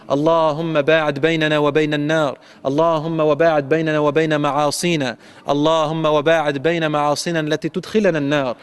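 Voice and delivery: fast rhythmic Arabic dua; الدعاء بسرعة; rapid supplication. Real, not acted. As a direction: pour out the closing prayer quickly.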